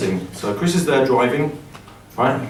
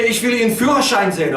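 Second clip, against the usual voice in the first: stern policeman demand; 6 semitones higher, faster than usual. Retold or imitated.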